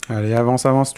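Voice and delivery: low, soft coaxing; talking it forward. Real, not acted. Player talking a game chicken forward, low and soft. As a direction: urge it along under your voice. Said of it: "on parle à son petit poulet pour le faire avancer".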